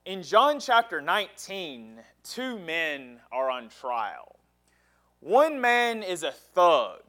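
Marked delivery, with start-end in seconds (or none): 2.2-4.4 hushed and slowed, letting the stakes sink in; dramatic whisper. Real, not acted. Preacher whispering the trial to his church, hushed. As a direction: breathe it to the congregation like a secret.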